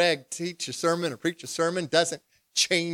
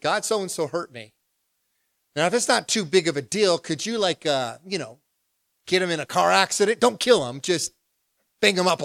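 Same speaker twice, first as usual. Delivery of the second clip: a touch of a grudge in a prayer, louder; mock angry prayer; 3 semitones higher, 4 dB louder than usual. Pastor playing his own angry prayer to God, mock angry. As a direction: pray for a car accident, half joking. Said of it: "'Cause I'm mad".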